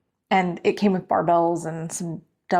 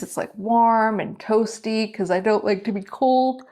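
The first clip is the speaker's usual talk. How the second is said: yawning. Real, not acted. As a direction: talk while fighting a yawn. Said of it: "If the yawning doesn't stop".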